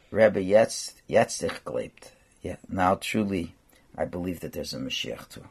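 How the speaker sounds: a broken man finally admitting belief; the doctor, moved to tears, tells the Rebbe he believes; tearful, hushed confession. Retold or imitated. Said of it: "He starts crying and starts crying".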